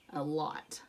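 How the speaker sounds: breathy whisper, almost no voice; a sly little whispered aside. Acted. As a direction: whisper it like a secret confession. Child narrator confides greedy secret.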